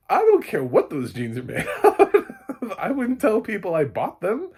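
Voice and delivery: high, loud laughing scold; laughing rant. Real, not acted. Laughing while scolding Blake over the jeans. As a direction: scold her while cracking up.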